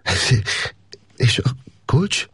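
a tight, worried catch in the voice; choked, uneasy. A narrator's reading. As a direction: ask with a sense of dread. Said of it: "rosszat sejtve elszorult hangon megszólalt". (elszorult, aggódó hangon)

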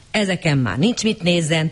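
ordinary delivery

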